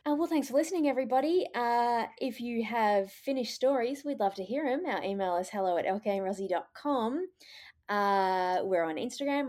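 smooth radio host sign-off; public radio voice. Acted. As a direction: read it like a radio presenter. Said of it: "Why are you doing your public radio voice?".

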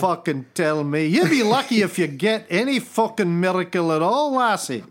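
put-on grumbling, lightly pitched Scottish accent; Scottish God. God warning lassie she'd be lucky, grumbling Scottish accent. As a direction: wind the rant down in mock Scottish. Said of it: "He must be Scottish".

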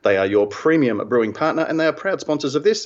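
sponsor read. Acted. Reads sponsor message at show start.

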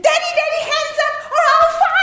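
put-on high, loud little girl making a threat; childish hold-up. Little daughter holding dad up at gunpoint, high shrill child threat. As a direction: play the gleeful gun-holding child. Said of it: "she said".

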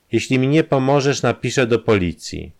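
hard-set blackmailer, firm; firmly. Acted. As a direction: lay down the ultimatum. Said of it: "odparł Kramer stanowczo".

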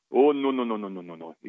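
imitated West Indian accent, run of falling no's. Psychologist objecting to the player's answer, West Indian accent. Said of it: "trying to do my West Indian accent".

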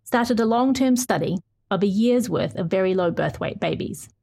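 measured, earnest feature read; story narration. Acted. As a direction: read it like a radio documentary. Reads her feature story aloud.

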